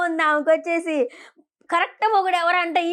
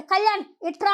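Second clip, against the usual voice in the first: higher-pitched call; 5 semitones higher than usual. Retold or imitated. Madhuri retold calling Kalyan over, calling out. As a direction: call someone over, imitated. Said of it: "అని పిలిచింది".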